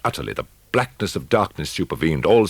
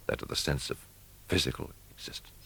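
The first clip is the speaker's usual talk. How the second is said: whispered; 9 dB quieter than usual. A narrator's reading. Fading description of waking senses.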